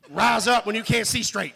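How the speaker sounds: ordinary talk, nothing marked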